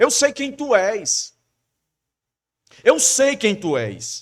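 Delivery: slow, despairing, desperate, insistent voice. Telling listeners what the man in the story cried out, acting out desperation. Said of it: "em tamanho desespero".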